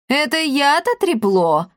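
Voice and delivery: protest, offended; indignant exclamation. Acted. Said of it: "воскликнул брат Бонифаций". (возмущённо, с обидой)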